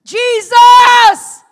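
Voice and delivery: second anguished shout; crying out again. Retold or imitated. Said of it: "And I cried out again".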